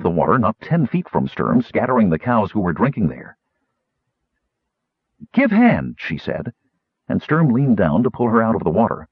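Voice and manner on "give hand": high-pitched terse request in broken speech; lightly voiced demand. A narrator's reading. Chervy to Sturm from the water, high-pitched demand.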